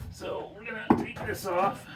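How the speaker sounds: soft unvoiced whisper. Real, not acted. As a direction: whisper so the bird stays calm. Working quietly near the trapped bird.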